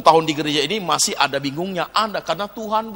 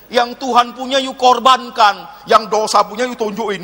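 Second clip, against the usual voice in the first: scolding preacher; 6 semitones higher, 6 dB louder than usual. Real, not acted. Scolds the congregation in sermon.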